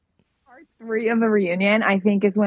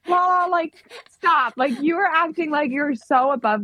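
exasperated scolding; 6 semitones higher than usual. Retold or imitated. Scolding Lala in a retold reaction.

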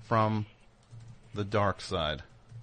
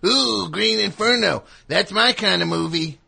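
high, loud mock enthusiasm; mock eager movie fan; 8 semitones higher, 5 dB louder than usual. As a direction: gush like an over-keen horror fan. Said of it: "what kind of person's like".

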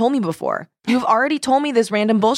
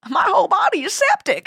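put-on cackly wheezy old timer; 11 semitones higher than usual. Friend joins, voicing the prospector.

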